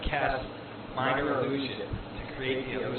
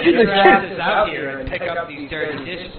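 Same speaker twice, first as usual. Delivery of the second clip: loud, higher orc bellow; guttural rough orc roar; 4 semitones higher, 11 dB louder than usual. Acted. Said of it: "a gruff orc voice screaming".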